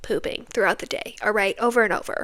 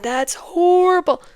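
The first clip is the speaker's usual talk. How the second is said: mock disgust; 8 semitones higher, 3 dB louder, slower than usual. Blaming the dog.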